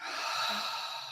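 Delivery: quiet airy exhale, barely voiced; soft breath out. Shown as a demonstration. Coach exhaling with the group, a soft sigh. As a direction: let a gentle breath go. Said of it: "Take another deep breath in".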